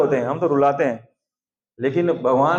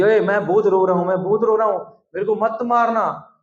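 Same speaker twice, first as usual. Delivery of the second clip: high, whiny pretend crying; hammed-up little-boy pleading; fake tearful child; 6 semitones higher than usual. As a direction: plead like a child forcing out tears. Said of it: "जबरदस्ती उसको घुसा घुसा के आंसू निकाल रहे हैं".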